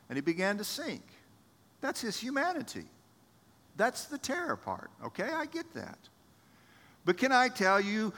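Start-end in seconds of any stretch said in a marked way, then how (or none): 1.8-6.0 soft aside. Real, not acted.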